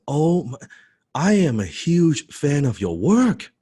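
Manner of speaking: loud, high, stretched-out fan gushing; gushing excitement. Retold or imitated. Fan meeting his idol, loud gushing excitement. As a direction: act out jumping with excitement. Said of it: "I was jumping up and down".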